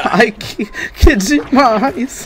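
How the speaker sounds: high put-on girly voice; squeaky falsetto attempt at a girl; man doing a woman's voice. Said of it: "não consigo fazer voz fina".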